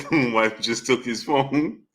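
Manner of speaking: slow, soft reading after a laughing fit. Real, not acted. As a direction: repeat it slowly, weak from laughing. Cracking up at a chat message.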